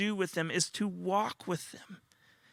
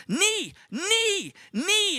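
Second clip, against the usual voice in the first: repeated high mock screeches; imitated toddler scream; 13 semitones higher, 5 dB louder, much slower than usual. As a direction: screech each one like an insistent toddler. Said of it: "he just screams that at you".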